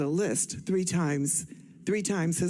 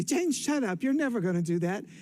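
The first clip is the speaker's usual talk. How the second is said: mock annoyed sister; 3 semitones higher than usual. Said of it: "my sister would get mad and say".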